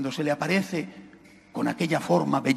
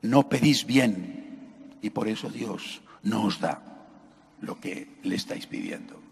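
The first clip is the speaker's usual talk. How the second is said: quoting Saint Paul; 8 semitones lower, 5 dB quieter than usual. Retold or imitated. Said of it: "escuchábamos a San Pablo decir".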